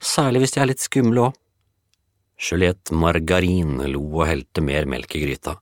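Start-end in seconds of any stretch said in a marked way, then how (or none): 0.0-1.4 put-on dreamy girl. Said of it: "sukket Lise".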